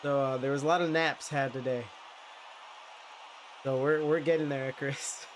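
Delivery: congested, stuffy nasal voice. Real, not acted. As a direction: speak through a blocked nose. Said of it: "you can hear it in my nasally ass voice".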